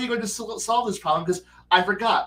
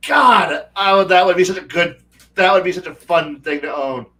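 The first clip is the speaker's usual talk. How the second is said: excited gushing; 8 dB louder than usual. Real, not acted. Gushing over owning artillery.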